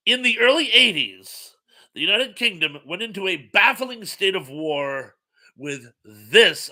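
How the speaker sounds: a trivia question with game-show punch; announcer read. Shown as a demonstration. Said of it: "I shall repeat".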